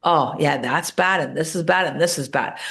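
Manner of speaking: a low, fading mock moan over each bad thing; mock grumbling. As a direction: sulk it out like a complainer. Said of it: "grumbling and moaning and complaining".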